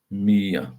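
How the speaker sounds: Mia repeated firmly as Mee-ah; name said Mia. Shown as a demonstration. Confirming the viewer's name for the chat, Mee-ah. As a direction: settle it: Mee-ah. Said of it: "like a cat".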